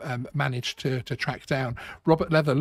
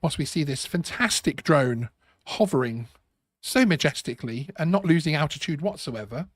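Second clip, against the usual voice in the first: sarcastic. Real, not acted. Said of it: "Of course, I am being sarcastic".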